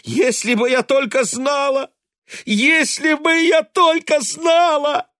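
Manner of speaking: high, loud wailing cry of a grieving mother; anguished cry. A narrator's reading. Mother collapsing at her son's door, crying out loud. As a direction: cry it out from the gut, rising in despair. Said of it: "со страшным, рвущимся наружу криком".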